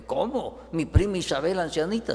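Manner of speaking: mild disbelief at the news; surprised Mary. Acted. Mary hears her old cousin is pregnant, surprised. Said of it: "Y la Virgen".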